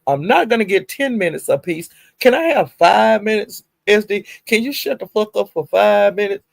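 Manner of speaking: a hint of an exasperated girlfriend; quoted exasperation. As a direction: plead then snap at him. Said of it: "she figured it out".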